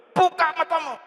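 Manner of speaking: high, loud imperative cry; shouted command. Retold or imitated. Man orders the dead woman to open her eyes, shouting. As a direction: re-enact a desperate last command at full voice.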